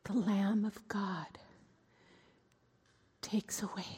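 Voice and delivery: hushed awestruck whisper. Acted. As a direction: whisper it as it dawns on you. Quiet realization of her sins.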